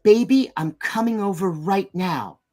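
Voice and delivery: slow, lightly acted urgent boyfriend; impression of a rapper. Boyfriend phones his girlfriend at night, slow and insistent. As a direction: imitate a boyfriend announcing himself, drawn out. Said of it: "he's like".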